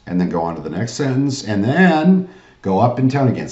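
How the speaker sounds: "then" lifted high, carrying straight on. Shown as a demonstration. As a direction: swing "then" upward to hold the floor. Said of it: "See what I did?".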